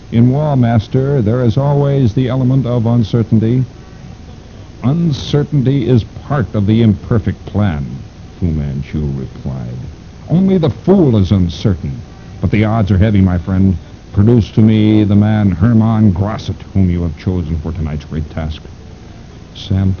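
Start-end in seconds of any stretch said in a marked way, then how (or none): 0.1-3.6 servile henchman voice. Acted. Pack answers his master. 4.8-7.8 sinister mastermind voice. Acted. Fu Manchu replies. 10.3-18.6 sinister mastermind voice. Acted. Fu Manchu demands Grosset.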